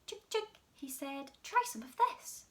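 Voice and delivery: high sing-song chick call; coaxing a hen. Acted. George coaxing the brown hen with the spoon. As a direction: coax the hen in high tones.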